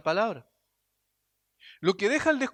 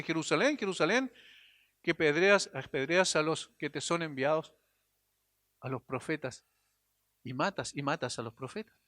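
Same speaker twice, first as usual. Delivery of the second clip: softer, grieving call to a lost city; mournful lament; 4 semitones lower, 4 dB quieter than usual. Retold or imitated. Preacher voicing Jesus weeping over Jerusalem, soft lament. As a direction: let the words sink low with sorrow.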